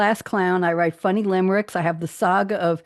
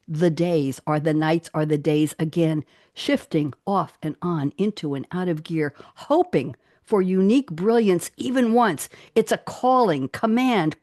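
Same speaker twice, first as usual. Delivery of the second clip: measured recital, lifting on the big words, easing down at the close; poetry reading. Real, not acted. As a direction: recite your poem with deliberate phrasing. Reads own acrostic poem aloud.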